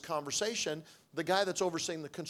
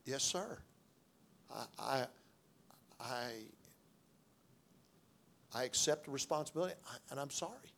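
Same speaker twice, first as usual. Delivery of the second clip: contrite apology; 2 semitones lower, 6 dB quieter than usual. Retold or imitated. Contrite reply to God.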